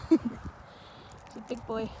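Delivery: slow breathy cooing; slow, breathy, tender dog talk. Real, not acted.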